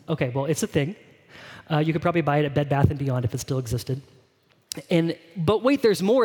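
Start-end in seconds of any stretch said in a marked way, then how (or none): 5.4-6.2 lightly voiced TV pitchman, a little higher; a hint of an infomercial sales pitch. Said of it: "do you guys ever see that infomercial".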